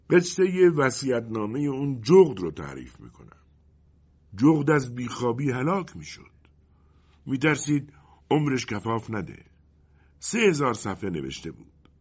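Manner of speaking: a hint of a wind character telling tales; lightly voiced storytelling wind. Wind Matteo offering the genies another tale, lightly voiced character.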